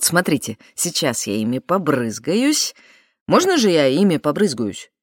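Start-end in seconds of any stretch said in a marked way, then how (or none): 3.3-4.9 imitated French accent, purring. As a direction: ask it with a seductive French accent. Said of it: "Очень сексуальный акцент".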